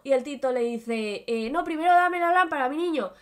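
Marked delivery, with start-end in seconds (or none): 1.3-3.1 a hint of a sly wizard, a little higher; lightly voiced smug magician refusing; mock wizard. (mago burlón, voz algo más aguda)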